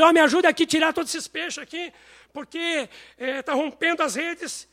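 high, urgent shout to the boats; excited call for help. Retold or imitated. Fishermen calling other boats as the nets burst.

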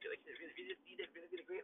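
high, soft gushing imitation of the staff; mock gushing. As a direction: squeal the praise like a fawning nurse. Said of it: "They were like".

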